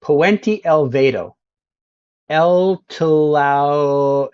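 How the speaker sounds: slowly over-pronounced Spanish sign reading; mock Spanish. Streamer showing off his Spanish to viewers, slow mock Spanish. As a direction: read each Spanish sign like a confident local. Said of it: "I'm gonna read every sign out in perfect Spanish".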